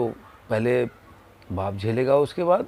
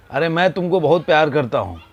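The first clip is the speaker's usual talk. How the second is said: louder, calling out with love; loving call; 3 semitones higher, 6 dB louder than usual. Retold or imitated. Father calling to son across the valley, loving call. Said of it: "ने चिल्ला के बोला".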